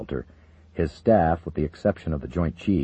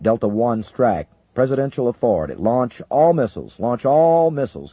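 loud, raised military order; urgent radio command; 5 semitones higher, 6 dB louder than usual. Acted. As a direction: bark codes over the phone. General issues launch codes.

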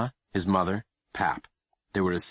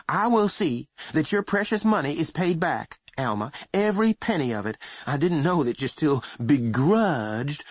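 cold, hurt voice; 8 semitones higher than usual. Acted. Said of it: "in a cold, hurt voice".

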